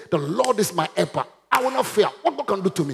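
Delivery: emphatic preacher's confession of faith; bold declaration. Shown as a demonstration. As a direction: declare it boldly, starting high. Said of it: "You should now be bold to say".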